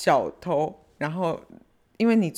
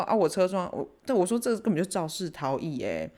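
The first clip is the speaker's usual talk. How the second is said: retold anger; 4 semitones higher than usual. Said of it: "气到爆炸这样".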